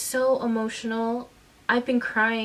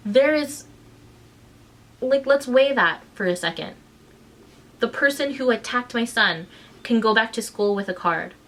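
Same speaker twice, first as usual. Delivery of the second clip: louder, pressing each point; outraged; 4 dB louder than usual. Real, not acted. Mother venting at the school, heated and louder. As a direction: weigh it out loud, slowing to the end.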